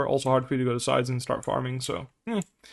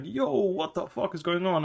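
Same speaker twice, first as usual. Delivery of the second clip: higher, slow, mock startled yelp of surprise; startled self; 5 semitones higher, slower than usual. Coach imagining his doorknob rattled, slow mock alarm. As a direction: act out being jolted by the rattling.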